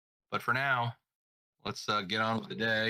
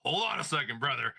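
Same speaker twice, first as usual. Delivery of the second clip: Hulk Hogan voice; 3 semitones higher than usual. Retold or imitated. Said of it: "yeah, it was Hogan".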